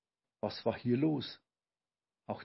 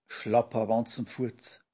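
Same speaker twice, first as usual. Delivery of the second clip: startled cry; 4 dB louder than usual. Acted. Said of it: "rief Olchi Papa und fuhr erschrocken hoch".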